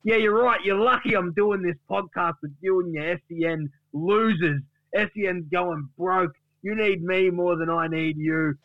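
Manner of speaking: high, indignant mock send-off; scornful Duck. Duck tells Gary he's quitting the podcast, scornful rant. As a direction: start high and fired up, scornful throughout. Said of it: "to which the speaker says".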